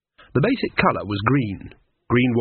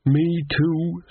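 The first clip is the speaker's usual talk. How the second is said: pitched a little higher than usual; slightly shriller; 6 semitones higher than usual. A narrator's reading. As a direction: raise the pitch, a touch shrill. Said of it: "her tone slightly shriller than usual".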